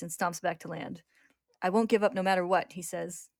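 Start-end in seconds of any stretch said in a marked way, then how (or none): 1.6-2.7 louder, firm resolve; determined vow. Acted. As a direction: swear it to yourself, jaw set. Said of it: "grows determined".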